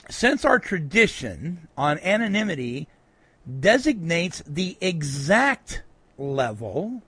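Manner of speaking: slow, pointed reading with mild sarcasm; quoted sarcasm. Retold or imitated. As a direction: read it out deliberately, drawing out the key words. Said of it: "a little bit of his sarcasm".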